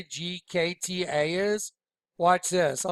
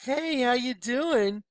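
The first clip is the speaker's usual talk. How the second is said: mock friendly greeting; 7 semitones higher, slower than usual. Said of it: "they're like".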